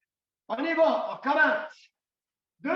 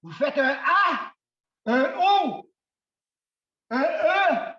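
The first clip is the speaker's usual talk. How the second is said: shouted vowels; 5 dB louder, slower than usual. Shown as a demonstration. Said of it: "vous criez une voyelle".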